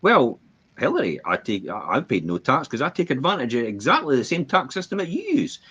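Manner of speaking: taunting Hillary in a mock Trump voice; Trump impression. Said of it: "when he stood there with Hillary Clinton and says".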